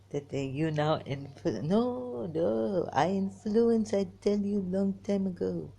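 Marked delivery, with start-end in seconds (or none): 1.6-5.7 emphatic correction. Pretend. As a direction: insist loudly on being the one. Corrects herself, insisting on her influence.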